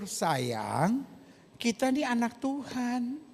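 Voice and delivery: soft, slow gentle rebuke from a husband. Retold or imitated. Husband softly rebuking his wife, tender and calm.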